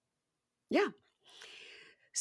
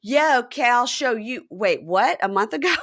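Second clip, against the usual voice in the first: loud retort turning to startled question; acted double take; 3 semitones higher, 6 dB louder than usual. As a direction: begin defiant, then stop short in mock surprise. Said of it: "And he goes".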